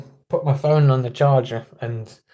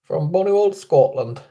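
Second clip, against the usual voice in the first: put-on Scottish accent; 2 semitones higher than usual. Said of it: "sounded a bit Scottish".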